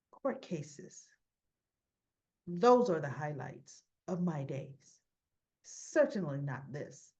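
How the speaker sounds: slow, deliberate, lofty retort; haughty put-down. Retold or imitated. Diane puts Nina down, retold.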